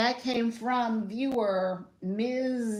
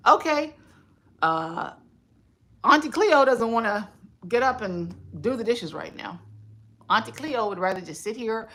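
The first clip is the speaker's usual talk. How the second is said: self-talk pep talk. Shown as a demonstration. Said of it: "you can ask yourself".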